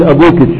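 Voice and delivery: أبوكش with a shin added after the kaf; kashkasha demo. Shown as a demonstration. Teacher demonstrating kashkasha to students. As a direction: say أبوكش ending in sh. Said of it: "الكشكشة إن تحط شين بعد الكاف".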